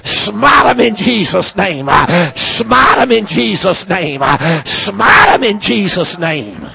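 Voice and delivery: fervent rhythmic hellfire preaching; preaching at full force. Real, not acted. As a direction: hammer each smite like a prophet's curse. Calls for God to smite.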